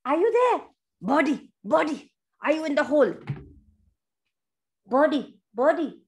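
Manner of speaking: lightly acted searching bear; short, rising-and-falling calls for someone hidden; bear calling out. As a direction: call down a burrow for a lost friend.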